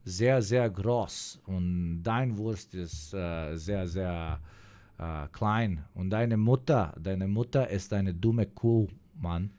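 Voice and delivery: slow, lightly hammed-up German accent; measured German accent, hesitating between phrases. Streamer showing his best German accent on request, slow and lightly put-on. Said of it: "give us your best German accent".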